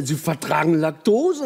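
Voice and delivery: slow, disbelieving question with a laugh; mock astonishment, drawn out; amazed barista. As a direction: barista can't believe the customer tolerates lactose, slowly. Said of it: "Und er war völlig überrascht".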